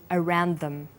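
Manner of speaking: "around them" linked, final d sliding into th; similar consonant linking. Shown as a demonstration. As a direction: run "around them" together with "them" unstressed. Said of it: "This is the case with the final d".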